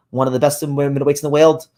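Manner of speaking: lightly Scouse, mostly in own voice; Scouse accent. Acted. Host naming a top boxer to viewers, in a Scouse accent. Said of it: "that was a good accent".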